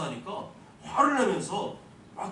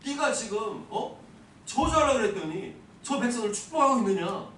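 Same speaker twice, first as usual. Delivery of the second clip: raised, louder angry demand as King Balak; retold anger; 5 semitones higher, 4 dB louder than usual. The preacher voicing Balak's outburst at Balaam, angry and raised. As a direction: Balak the king snapping at Balaam for blessing instead of cursing. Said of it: "도리어 막 화를 냅니다".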